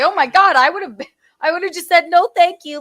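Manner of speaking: high, loud flustered protest. Retold or imitated. Woman embarrassed by her protective friends, retold flustered protest. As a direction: protest that it was all too much. Retells own reaction to friends' overreaction.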